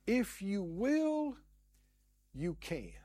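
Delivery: mimicking the leper's prayer. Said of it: "praying the same way the leper prayed".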